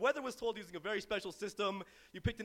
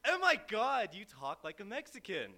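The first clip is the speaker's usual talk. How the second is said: mock astonished interruption; 2 semitones higher, 3 dB louder than usual. Friend interrupts his story, mock astonishment. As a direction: cut him off with mock amazement. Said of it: "I'm telling a story and I'm interrupted".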